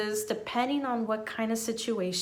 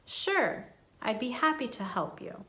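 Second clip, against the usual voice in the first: smiling, happy to help. Shown as a demonstration. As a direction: sound approachable and glad to help. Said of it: "Make sure that you sound approachable".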